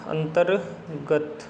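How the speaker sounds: अंतर्गत very slow, split as अंतर, गत; slow syllable breakdown. Shown as a demonstration. Teacher shows how it is written, very slowly in parts. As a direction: break अंतर्गत in two with a pause. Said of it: "इस तरीके से लिखा जाएगा".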